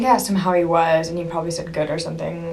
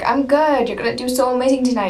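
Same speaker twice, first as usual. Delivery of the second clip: high, loud, hurried retold praise; gushing fan; 6 semitones higher, 4 dB louder than usual. Fan wishing a band member well, gushing. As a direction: re-enact gushing encouragement in a rush.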